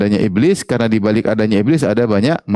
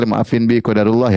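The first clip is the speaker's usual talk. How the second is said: apologetic plea. Retold or imitated. Wife apologising to husband for her mistake, contrite. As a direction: say it like a remorseful wife. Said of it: "kalau datang menyesal".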